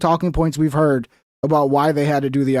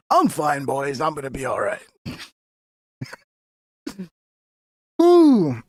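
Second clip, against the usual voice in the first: choking. Real, not acted. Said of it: "the Rogue juice just went down the wrong pipe".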